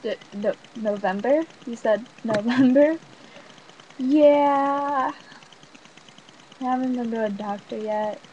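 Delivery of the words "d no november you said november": stuttering. Retold or imitated. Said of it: "I kind of stuttered".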